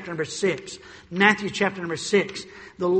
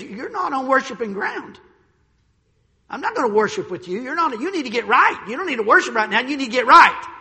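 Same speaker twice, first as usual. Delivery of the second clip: rising stern rebuke that swells louder at the end; 3 semitones higher, 3 dB louder than usual. Retold or imitated. Preacher voicing Samuel rebuking Saul, building loud. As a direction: Samuel scolding a king, building to a loud finish.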